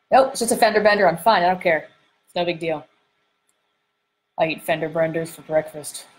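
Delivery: lightly played tough guy, brushing it off; a hint of macho dismissal; tough manly voice. Man shrugs off a fender bender, lightly put-on tough manly voice. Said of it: "Is my, my tough manly voice".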